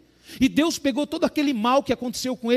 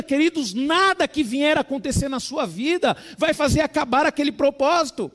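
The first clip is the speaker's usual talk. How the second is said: full-force preaching; 2 semitones higher than usual. Acted. Pastor proclaims God's sovereign purpose, full-force preaching. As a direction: preach it out over the congregation.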